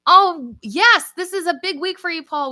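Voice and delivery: high, excited burst, loud at first; excited for someone. Real, not acted. Reacting to a viewer's big week, excited. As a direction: cheer them on with delight.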